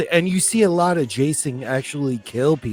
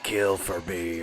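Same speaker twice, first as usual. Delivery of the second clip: low, soft, menacing; eerie mirror voice; 7 semitones lower, 8 dB quieter than usual. Retold or imitated. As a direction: whisper it like a curse. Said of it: "a Jason in the mirror, like".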